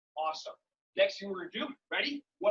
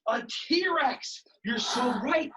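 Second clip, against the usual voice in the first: excited praise; 3 semitones higher, 5 dB louder, much slower than usual. Real, not acted. Cheering a child's correct guess.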